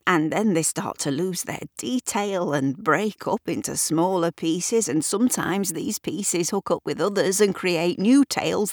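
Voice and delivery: lightly voiced old storyteller; old man voice. The speaker explains storytelling.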